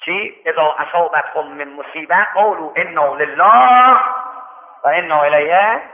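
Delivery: slow, measured Arabic verse; slow scripture reading for the bereaved; Quranic recitation. Acted. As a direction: recite the verse with drawn-out endings. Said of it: "این آیه رو خوند".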